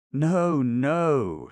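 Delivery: high, loud urgent no; interrupting cry. A narrator's reading. Olga cutting Oblomov off in tears, urgent cry. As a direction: cut him off through tears. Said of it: "she interrupted".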